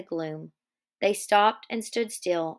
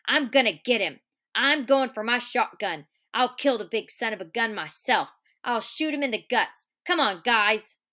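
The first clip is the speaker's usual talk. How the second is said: fury. Acted. Curly vowing revenge to the men, mild read-aloud fury. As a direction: work up into mock rage. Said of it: "He worked himself into a fury".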